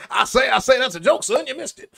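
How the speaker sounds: lightly voiced Southern rooster; a hint of the blustery cartoon rooster; Foghorn Leghorn impression. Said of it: "the Foghorn Leghorn reference".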